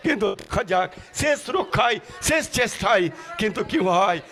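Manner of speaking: rousing football commentary call; live play-by-play. Acted. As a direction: call the match like a stadium announcer.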